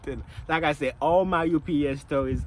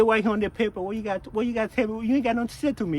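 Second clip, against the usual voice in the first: pushy manager; 6 semitones higher than usual. Retold or imitated. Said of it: "He said".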